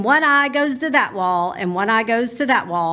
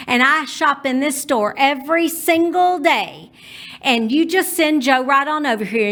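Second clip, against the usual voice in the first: loud fit; 2 semitones higher than usual. Retold or imitated. Mother demanding the manager from the store clerk, loud and indignant. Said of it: "Mama got so loud that she said".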